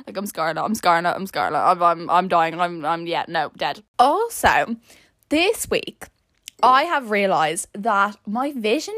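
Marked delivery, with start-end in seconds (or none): 0.2-3.8 low, deadened repetition; mortified. Real, not acted. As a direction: repeat it low, as if dying of embarrassment. Declaring how mortified she is.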